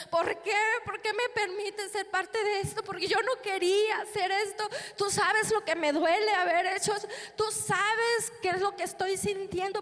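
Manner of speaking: llanto retomado. Retold or imitated. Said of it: "Estaba llorando, estaba enojada".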